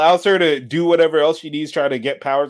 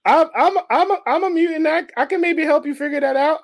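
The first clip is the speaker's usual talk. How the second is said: Rogue voice; 9 semitones higher than usual. Acted. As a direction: play it sultry and helpful. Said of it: "acting this out".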